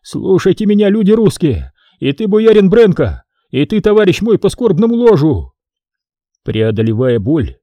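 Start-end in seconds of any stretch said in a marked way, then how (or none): 0.0-5.5 high wailing appeal; high-pitched keening plea; lamenting. A narrator's reading. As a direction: wail it out to everyone around. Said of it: "запричитал".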